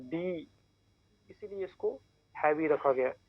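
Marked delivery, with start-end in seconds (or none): 0.0-0.5 "डी" voiced from inside, with some stress. Shown as a demonstration. Teacher showing learners the heavy D sound, stressed. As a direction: press a little on the voiced "डी". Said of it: "थोड़ा stress देके बोलना पड़ता है".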